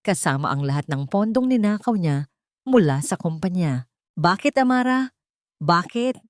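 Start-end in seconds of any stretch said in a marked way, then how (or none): 4.1-6.2 hoarse cry. Acted. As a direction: cry out into the empty office, voice cracking. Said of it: "Ang paos na hiyaw ni Alejandro".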